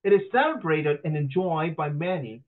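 lightly mocking Western-accented recitation; imitated foreigner's English accent. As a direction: read aloud in a put-on Western accent. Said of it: "老外在讲英文".

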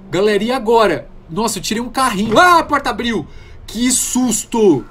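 high, loud startled cries; jumpy and scared; panicking gamer. Real, not acted. Door suddenly opens, startled.

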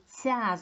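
ЦЯ with a soft palatalized ц; ЦЯ demonstrated as a softened syllable; soft consonant. Shown as a demonstration. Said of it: "звучить м'якенько".

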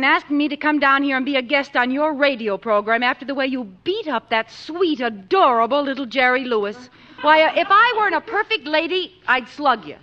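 huffy, ladylike outrage; mock indignant scolding. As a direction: tear into the bully, sugary for Jerry. Lucille scolds Dean angrily.

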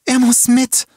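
very high, loud insistence; desperate demand. A narrator's reading. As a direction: scream it as a demand. Girl desperately insists on her brother. (laut und schrill fordernd)

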